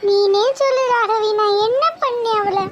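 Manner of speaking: loud, hurt and indignant; upset outburst. Acted. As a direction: protest that you did nothing wrong. Upset friend defends herself loudly.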